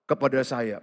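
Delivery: usual speaking voice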